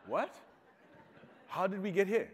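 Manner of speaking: shocked disbelief. Retold or imitated. Nephew reacts, stunned, to being asked about a wife. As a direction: cry out in baffled surprise.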